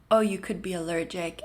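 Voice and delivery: ordinary talk, nothing marked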